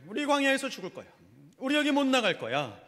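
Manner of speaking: high-pitched acted grumbling; grumbling complaint. Israelites grumbling that they will die in the wilderness, high complaint. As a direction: complain up high, imitating the people. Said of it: "계속 이렇게 불평불만해요".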